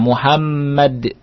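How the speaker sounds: "Muhammad" drawn out slowly, stopped on d; slow "Muhammad" with no -un ending; tanwin unread. Shown as a demonstration. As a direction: stretch "Muhammad" and close on the d. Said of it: "tidak dibaca tanwinnya".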